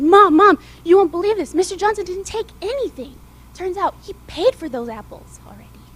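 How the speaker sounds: put-on loud, breathless excited boy; excited shout. Boy rushing back to tell his mom, excited. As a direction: burst in with the big news.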